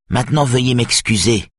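politely but curtly end the conversation. A narrator's reading. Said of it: "dit sèchement Edith". (dit sèchement)

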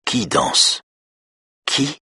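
put-on high, airy little-girl voice; hypnotised girl. A narrator's reading. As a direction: echo it high, like a child in trance.

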